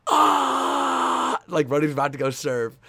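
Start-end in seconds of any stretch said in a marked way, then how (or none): 0.1-1.4 loud, high drawn-out yell; imitated teammate's roar. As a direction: let out a flexing athlete's roar. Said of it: "he just fucking goes".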